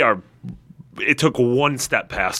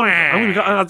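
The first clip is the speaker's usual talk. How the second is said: mock wail; 9 semitones higher, 3 dB louder than usual. Mock lament repeated.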